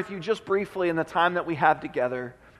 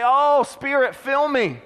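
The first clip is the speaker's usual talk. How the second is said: higher, urgent mock prayer; imitating a worried worshipper's cry; acted anxious plea; 5 semitones higher than usual. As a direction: plead for help, words tumbling out.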